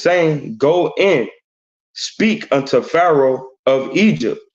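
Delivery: measured, deliberate Bible reading; scripture reading. Acted. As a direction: read the verse out with weight. Reads scripture aloud.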